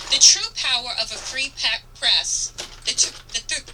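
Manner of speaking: trips on the word, breaks off "pe-" then recovers with "press"; stumbled read. Real, not acted. Reading the closing quote to listeners, stumbling over it. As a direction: fumble the line mid-word. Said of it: "ugh, let me say this again".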